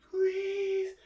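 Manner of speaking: high, rising-in-force plea; loud, very high drawn-out begging; pained ghostly shriek. Acted. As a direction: wail the word like a tormented ghost. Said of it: "she shrieks".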